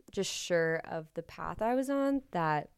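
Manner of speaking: raspy voice from a cold; hoarse voice. Real, not acted. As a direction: talk through a sore, hoarse throat. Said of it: "that's why I sound like a smoker".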